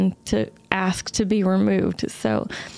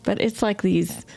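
ordinary talk

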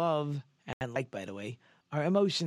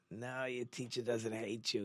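hushed parent; 6 dB quieter than usual. Retold or imitated. Parent answers child's complaint.

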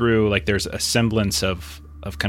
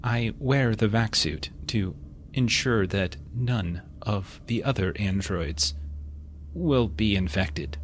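muffled voice; 5 dB quieter than usual. Acted. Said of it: "again, muffled voice".

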